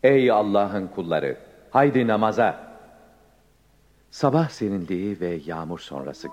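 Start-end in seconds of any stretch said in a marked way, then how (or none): 0.0-2.8 calling out. Acted. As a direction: call them to prayer loudly. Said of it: "arkadaşlarına seslendiler".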